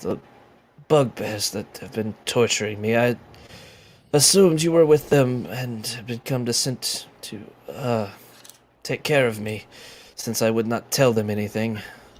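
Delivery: croaking, croaky voice. Narrator voicing a captive speaking to the listeners, in a croaking voice. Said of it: "in a bit of a croaking voice".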